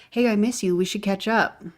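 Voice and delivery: light mock of a friendly sales pitch; mock recruiting pitch. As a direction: sweet-talk an old friend back in touch. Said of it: "is Lisa's recruiting pitch".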